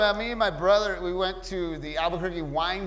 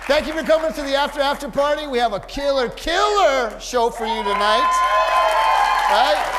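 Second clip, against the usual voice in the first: hyped emcee; 8 semitones higher, 9 dB louder than usual. Real, not acted. Host announcing tonight's guests to the crowd, hyped emcee. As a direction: build to a shouted send-off.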